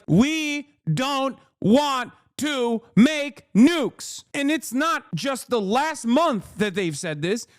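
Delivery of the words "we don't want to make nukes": mock quote. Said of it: "to be like".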